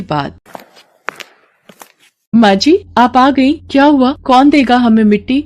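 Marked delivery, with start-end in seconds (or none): 2.3-5.4 slightly higher, anxious daughter-in-law voice; a worried young wife pleading with her mother-in-law; worried young bahu. Acted. Mala anxious. (चिंतित बहू की आवाज़)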